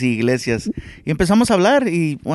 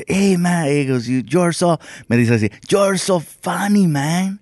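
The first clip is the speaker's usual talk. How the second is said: put-on higher-pitched, drawn-out Spanish-accented English; acento español exótico; 4 semitones higher, slower than usual. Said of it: "como dice que habla así". (acento español imitado, alargado)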